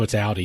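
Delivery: dropped-down, amused "Audi" rhyming with howdy; Jersey pronunciation. Shown as a demonstration. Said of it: "We're from Jersey".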